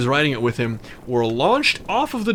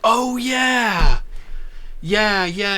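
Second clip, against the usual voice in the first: higher, drawn-out shady guy; 8 semitones higher, much slower than usual. Retold or imitated. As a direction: voice the dodgy dealer, stretched.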